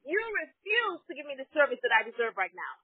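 retold indignant tirade; acting out a customer's telling-off; losing it. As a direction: press the complaint home, exasperated. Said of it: "I lost it on him".

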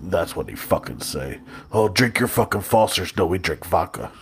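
put-on Russian accent. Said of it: "what Russian Kool-Aid would say".

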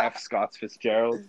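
cracking voice, said slowly. Real, not acted. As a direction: voice cracking mid-line. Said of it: "that was a pretty bad voice crack".

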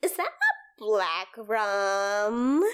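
a hint of bubbly fangirl gushing; shipping voice. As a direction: gush about a ship, lightly bubbly. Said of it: "That's the shipping voice".

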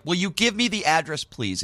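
mock fed-up demand; angry demand. Demanding the address from his friend, fed up. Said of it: "I'm so angry that I'm just driving".

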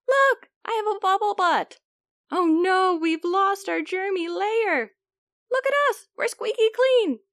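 high, loud squeaky germ. Acted. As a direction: squeak it like tiny germs. Germs in the lather.

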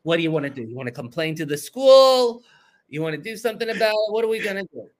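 animated New York Jewish mother, pitch climbing; fussing New York Jewish lady; New York Jewish mom. Retold or imitated. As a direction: push the questions in a New York Jewish accent. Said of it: "she's a New York Jewish lady".

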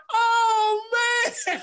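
very high, dismayed "oh, man" with a laugh in it; stunned groan. Retold or imitated. Same fan seeing his man knocked out, high laughing dismay. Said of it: "he was like".

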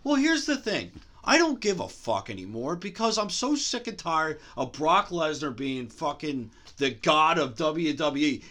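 worked-up tirade with sarcastic jabs; going off. Real, not acted. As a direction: rant emphatically, leaning on the swearing. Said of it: "I'm gonna go off".

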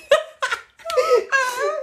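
high, loud laugh tipping into a cry. Real, not acted. Recalling the crash to her cohost, a high laugh-cry. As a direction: laugh until it nearly breaks into tears. Recounting crash confession to dad.

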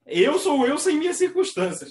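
slowed, self-satisfied declaration; a lightly voiced smug Capricorn, slowly; slow proud Capricorn motto. Imitating a Capricorn who thinks he needs no one, slow and proud. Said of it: "É Capricórnio isso daí".

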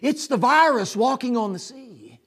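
loud, high, frantic panic; high, shouted fright; panicked disciples. Acted. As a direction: cry out in terror at a ghost. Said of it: "something that's there that's like".

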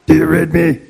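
CB radio call, high and hammed; over a radio. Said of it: "get the C B radio out".

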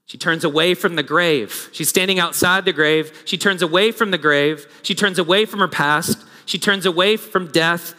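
insistent, rhythmic sermon refrain; emphatic preaching. Real, not acted. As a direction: drive each repeated phrase home like a preacher. Preaches with rising repetition.

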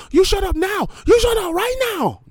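put-on very high, loud caricature accent; shrill squeaky put-on accent yelling; mock Asian accent. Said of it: "racist Asian voice that come in and go".

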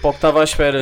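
laughing through the words. Real, not acted. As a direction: laugh it out, a bit embarrassed. Admitting he's worried, laughing.

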